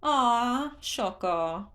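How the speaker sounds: very high, sighing aw; a cheerful creature let down; disappointed Hestu. A narrator's reading. Hestu sighing to Link about missing seeds in a high voice. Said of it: "Hestu sighed".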